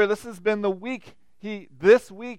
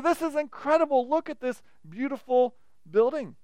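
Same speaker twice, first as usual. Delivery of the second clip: awestruck; 5 semitones higher than usual. Retold or imitated. Disciples gawking at the temple.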